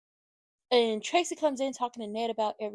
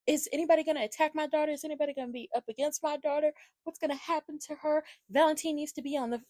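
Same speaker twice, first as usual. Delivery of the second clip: higher, fast, fretting mother voice; mock anxious mother; 5 semitones higher, faster than usual. Mocking Lulu fretting over her daughter, fast and high. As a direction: imitate a panicky mom rattling off questions. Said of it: "Lulu over there asking questions".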